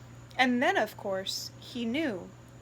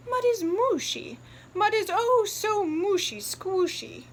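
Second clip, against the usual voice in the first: much higher, louder mother; mother pig delighting in the mushy mud; delighted mother pig; 9 semitones higher, 4 dB louder than usual. Acted. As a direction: relish the mud.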